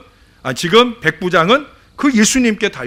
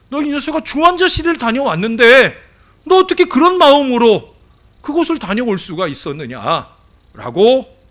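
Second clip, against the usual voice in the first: higher, louder scolding voice; God's stern rebuke; 5 semitones higher, 3 dB louder than usual. Retold or imitated. God scolding the pastor for his cold heart, higher and louder stern rebuke. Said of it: "그 마음을 하나님이 책망하시더라고요".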